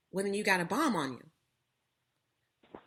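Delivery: slow, hammed-up yell of an angry stranger; imitating a hostile stranger's slow shout; mock yell. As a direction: retell his accusing shout, drawn out. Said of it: "he's yelling the whole time".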